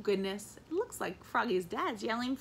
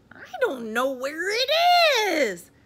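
put-on childish whine; 10 semitones higher, 10 dB louder than usual. A narrator's reading. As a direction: whine it with a long last word. Froggy whining back to his father.

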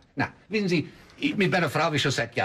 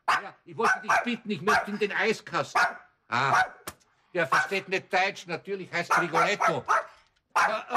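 higher, coaxing voice for the dog; talking to a dog; 3 semitones higher than usual. Acted. Man coaxing the dog Rigoletto, higher sweet-talking voice. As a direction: sweet-talk the pet to win it over.

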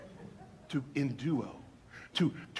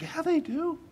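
ironic retort; 12 semitones higher, 3 dB quieter, slower than usual. Real, not acted. Ironic answer.

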